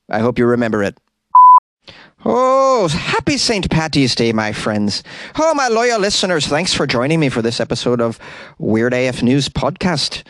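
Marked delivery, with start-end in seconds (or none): 2.3-10.2 put-on butchered Irish accent. Host greeting loyal listeners on Saint Patty's Day, butchered Irish accent. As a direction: put on a bad Irish brogue. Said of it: "I'm the king of butchering accents".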